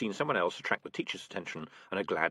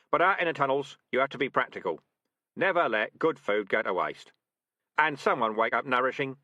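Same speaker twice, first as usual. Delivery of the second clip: louder, confident commands; brisk rat sergeant; 3 semitones higher, 5 dB louder than usual. Acted. Sergeant rat ordering trainees to drag the trap, brisk. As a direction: give orders to the squad briskly. Dark Tan advising.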